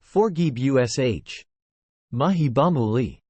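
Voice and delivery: slow slurring plea; words dragged through a hurt mouth; slurred airy voice. Acted. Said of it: "spoke in an airy voice".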